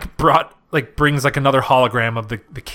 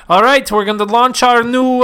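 loud, higher mock Austrian accent; Schwarzenegger accent; 9 semitones higher, 6 dB louder than usual. Podcaster imitating Schwarzenegger's Austrian accent for her cohost. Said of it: "I don't know why my accent is".

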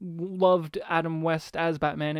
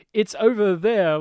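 stern Batman; 5 dB louder than usual. Retold or imitated. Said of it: "He says very sternly".

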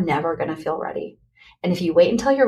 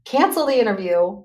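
a hammed-up inner scream; the frantic voice in her head yelling stop; mock scream; 6 semitones higher than usual. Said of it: "that inner voice that was screaming".

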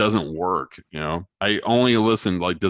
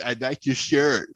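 mock German accent; 3 semitones higher than usual. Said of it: "Why do all these girls have a German accent".

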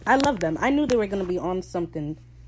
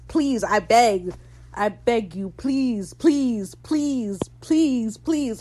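hammed-up pleading, rising higher; begging; 4 semitones higher, 5 dB louder, much slower than usual. Fan begging for flashbacks, playfully desperate pleading. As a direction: beg over and over, each please high and falling. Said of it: "I'm on my knees begging".

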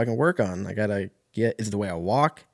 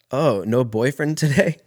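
higher, lilting retold question; mock waitress question; 4 semitones higher, 4 dB louder than usual. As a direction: quote her pointed question, pitch climbing.

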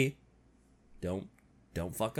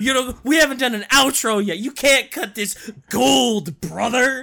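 louder hammed-up wrestler bark; wrestling promo voice; 3 semitones higher, 5 dB louder than usual. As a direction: shout it like a ring promo. Wrestler voice outro.

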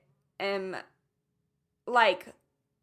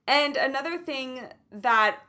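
nervous shaking voice; shaky voice; 4 dB louder than usual. Real, not acted. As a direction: voice trembling with nerves. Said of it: "you can hear my voice shaking".

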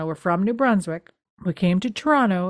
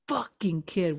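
under-the-breath whisper of frustration; angry mutter; 4 dB quieter than usual. Retold or imitated. A frantic mother curses her runaway son under her breath. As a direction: hiss it like a fed-up mother.

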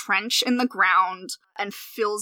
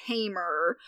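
whispered; 3 semitones lower, 7 dB quieter than usual. Real, not acted. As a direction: whisper the word. Aside on gentler necromancy.

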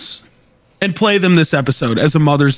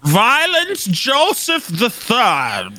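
mock grand; 4 semitones higher, much slower than usual. Grand name joke.

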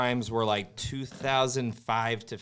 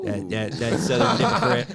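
put-on Southern accent; 6 dB louder than usual. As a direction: play a Southern politician. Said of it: "impersonation of Bush".

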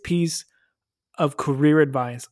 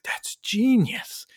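wife impressed; 8 semitones higher, much slower than usual. Retold or imitated. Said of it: "she's like".

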